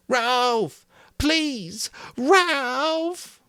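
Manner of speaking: high, loud calling shout. A narrator's reading. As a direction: yell after him. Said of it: "Piggy shouted".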